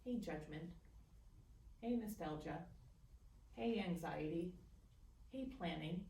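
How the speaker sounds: as if whispering to the mind; light gentle naming. Shown as a demonstration. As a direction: softly greet each thought. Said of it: "as if you were whispering to the mind".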